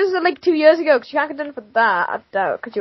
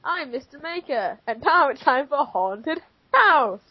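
put-on slow, softer children's TV presenter; 5 dB quieter, much slower than usual. The girl does her TV man voice for the story title. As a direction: present it like a kids' show host. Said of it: "my default accent for T V man".

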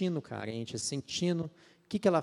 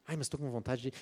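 softer, whiny sighing plea; whiny craving; 6 dB quieter than usual. Pretend. Believer's tempted side whining to itself, soft whiny plea. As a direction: sigh like you're giving in. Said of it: "brigar com você".

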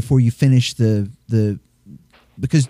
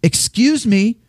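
polite stern hush; 11 semitones higher, slower than usual. Retold or imitated. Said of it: "says in English to them".

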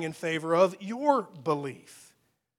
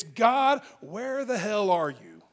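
mock outburst at God; 4 dB louder, slower than usual. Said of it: "and it's".

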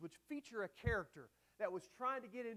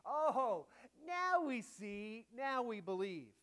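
empty confession; 2 semitones higher, slower than usual. Shown as a demonstration. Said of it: "kind of an empty confession".

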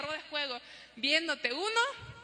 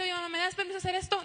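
put-on quick, higher pleading kid voice; child asking mom; 4 semitones higher, faster than usual. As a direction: play the kid begging for permission. (niño pidiendo permiso, voz aguda)

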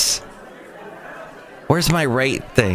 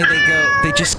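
squeaky high pitch. Retold or imitated. Mimics cat going mental.

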